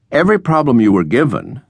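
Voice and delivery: high, emphatic reproach; exasperated dean. A narrator's reading. Dean reproaches the student over his designs, exasperated. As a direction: list the offences with rising indignation.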